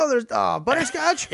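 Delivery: high, dreamy longing. Retold or imitated. Voicing buffet longing.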